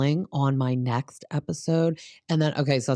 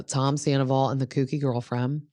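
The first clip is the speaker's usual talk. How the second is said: whisper. Real, not acted. Gossipy aside naming the couple.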